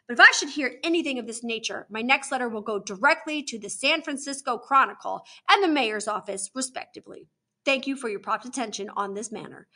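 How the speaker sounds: formal, emphatic letter reading; crisp official indignation; indignant letter read aloud. Acted. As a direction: read a stern complaint letter with stressed words. Reads a stern letter aloud.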